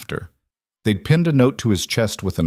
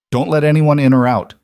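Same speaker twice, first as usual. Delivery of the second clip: firm loud order; 7 semitones higher, 6 dB louder than usual. A narrator's reading. Marshal orders the deputy urgently.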